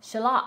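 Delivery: shallot as shuh-LOT; second-syllable stress. Shown as a demonstration. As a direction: say "Shallot" with the weight on the last syllable. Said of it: "how to pronounce it".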